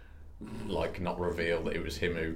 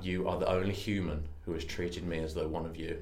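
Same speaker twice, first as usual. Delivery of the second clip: solemn alien messiah; 4 semitones lower, 6 dB quieter than usual. Acted. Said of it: "I've become a cult leader".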